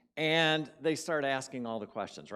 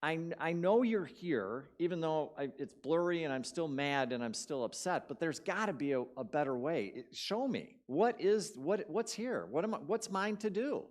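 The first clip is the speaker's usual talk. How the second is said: pleading prayer; 4 semitones higher than usual. Retold or imitated. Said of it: "And so my thought was".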